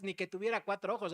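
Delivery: "ni que tuviera cuatro ojos" rattled off fast; fast, dismissive shrug of a line; quick offhand excuse. Retold or imitated. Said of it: "No, pues es que yo te estaba poniendo atención".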